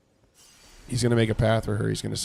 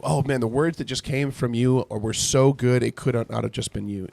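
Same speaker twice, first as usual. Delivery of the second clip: mock praise; 3 semitones higher than usual. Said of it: "he's being sarcastic".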